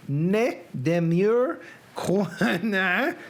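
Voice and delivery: put-on halting Southern-accented French. Reader guessing at Poe's French quotation, Southern accent. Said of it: "Reading French in a Southern accent".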